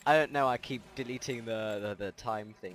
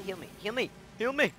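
higher, louder plea for healing; panicked call; 10 semitones higher, 4 dB louder than usual. Real, not acted. Player begging the medics to heal him, panicked yell.

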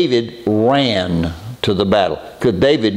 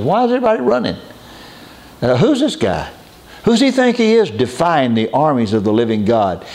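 put-on a boy's high, astonished outrage; indignant disbelief; 4 semitones higher than usual. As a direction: ask it as if you can't believe your ears. Young David outraged at giant.

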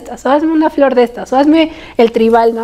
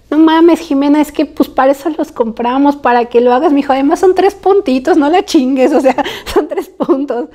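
mildly exasperated retold pleading, pitched higher; exasperated urging; 4 semitones higher than usual. Partner urging her to do the tattoo, mildly exasperated. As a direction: imitate a partner pushing back.

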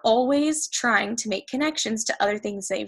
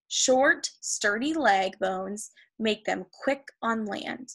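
slow, measured read-aloud; teacher reading a textbook to the class, key words drawn out; reading to children; slower than usual. Acted. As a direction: read it slowly and carefully for young learners. Reads textbook aloud to pupils.

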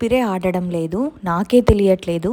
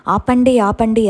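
retelling how she screamed for the prayer songs to stop; retold crying yell; 4 dB louder than usual. Possessed girl screaming at her family to stop the songs, in a retold yell. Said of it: "గట్టి గట్టిగా ఏడుస్తుంటాను".

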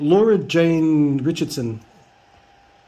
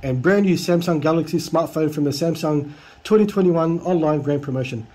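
reading broken English. Retold or imitated. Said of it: "I need to read out this guy's English".

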